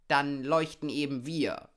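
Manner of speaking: loud, high glow-worm chorus voice; volunteer brightly and loudly as glow-worms. A narrator's reading. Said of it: "sagten die Glühwürmchen". (laute, hohe Glühwürmchenstimme)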